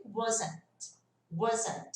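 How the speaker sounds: "wasn't" alone with a light final T; isolated "wasn't". Shown as a demonstration. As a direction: let the T of "wasn't" out very gently. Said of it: "se eu falar só ele". ("wasn't" isolado, T bem leve)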